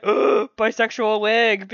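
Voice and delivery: excited. Retold or imitated. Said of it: "I was extremely excited".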